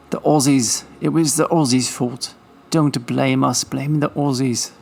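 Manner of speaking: barely there mock Austrian accent; a light, half-hearted Austrian accent. Vlogger jokingly blaming the Aussies in a faint Austrian accent. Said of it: "That's the best Austrian accent I got right now".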